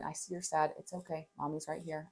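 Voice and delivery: quiet, tender reassurance; soothing mom. Retold or imitated. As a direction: comfort a crying child softly. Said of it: "I'm mirroring her".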